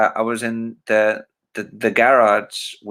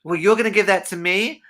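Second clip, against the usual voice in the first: Michael imitation; 8 semitones higher than usual. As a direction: ask it with shy disbelief, pitched up. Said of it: "He goes".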